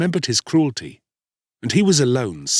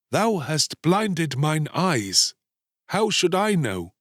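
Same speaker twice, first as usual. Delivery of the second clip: higher-pitched, slow animal voice; reproachful mole; 7 semitones higher, slower than usual. A narrator's reading. Blinded mole answering the boy, reproachful. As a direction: draw out the reproach.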